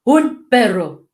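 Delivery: slow, barking delivery like a woof; woofing dog voice. Shown as a demonstration. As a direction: bark the words like a dog. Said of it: "trying to woof like a dog".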